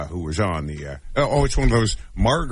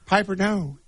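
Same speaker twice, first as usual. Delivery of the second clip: high mock southern "Piper, no"; Parker Posey's southern accent; 11 semitones higher than usual. Host quoting the actress's catchphrase, mock southern accent. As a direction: imitate a southern actress, pitched well up. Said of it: "it was just a southern accent".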